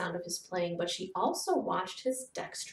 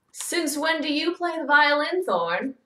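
friendly tone; 7 semitones higher, 9 dB louder than usual. Acted. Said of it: "in a friendly tone".

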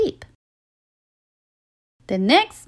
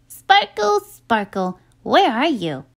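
calling out. Acted. Lucy calling for her unicorn.

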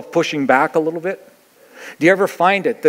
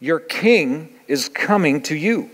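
scripture reading. Acted. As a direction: read it out like holy text.

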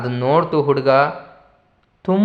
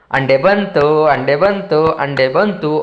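put-on sing-song chant of a delighted kid; happy child; slower than usual. Tenali as a child, dancing happily over the vessel, sing-song chant. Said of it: "ಕುಣ್ದಾಡ್ಬಿಟ್ಟ".

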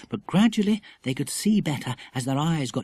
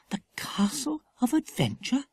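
put-on high, wondering question from a young girl; Lucy Ann surprised, echoing the castle name; 11 semitones higher, 3 dB quieter than usual. A narrator's reading. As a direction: echo it back, amazed. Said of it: "echoed Lucy Ann in surprise".

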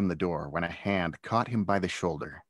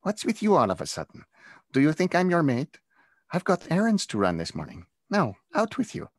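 with a laugh; 9 semitones higher, 4 dB louder than usual. Acted. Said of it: "Kalita said with a laugh".

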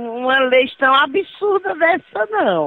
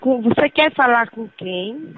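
over a landline phone. Real, not acted. Called person speaking on the phone.

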